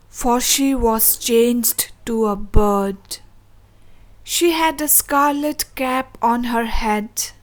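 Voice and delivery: steady storytelling poem reading; poem recitation. A narrator's reading. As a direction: recite it as a gentle old tale.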